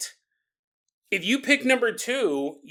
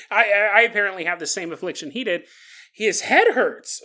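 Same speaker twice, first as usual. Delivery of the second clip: dazed man; 3 dB louder than usual. Retold or imitated. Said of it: "He said".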